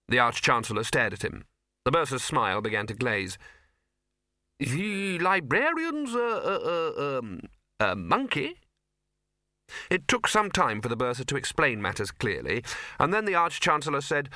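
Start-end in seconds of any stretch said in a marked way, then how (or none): 4.6-8.6 slow, high, faltering disbelief; incredulous stammer. Acted. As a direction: stumble towards an unbelievable conclusion. Incredulous Arch-Chancellor gropes for word.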